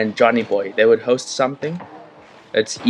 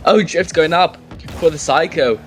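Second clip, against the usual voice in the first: American accent. Shown as a demonstration. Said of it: "So I have to talk like that".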